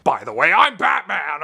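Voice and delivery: slightly loud put-on superhero voice; hammed-up stab at a masked hero; attempted Batman voice. Critic mocking the vet's voice, attempted Batman impression. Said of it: "whatever I'm trying to do with this voice".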